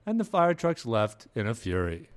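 botched English newsreader, dropping at the line's end; failed English accent. Shown as a demonstration. Podcaster showing how English reporters end stories, poor English accent. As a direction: attempt an English story sign-off, badly. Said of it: "wasn't even an English accent".

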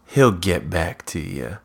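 lightly mocking brush-off; snarky. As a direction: dismiss them with understated snark. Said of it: "says it really snarky".

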